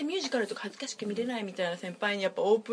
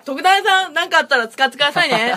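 loud, high joking call-out; mock appeal; 5 semitones higher, 10 dB louder than usual. Guest calling out to Tokuda to use the recording, mock appeal. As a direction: call it out brightly as a playful plea.

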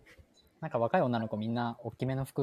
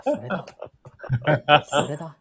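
loud eager "that's it"; excited agreement; 3 semitones higher, 9 dB louder than usual. Real, not acted. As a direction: jump on the idea, laughing.

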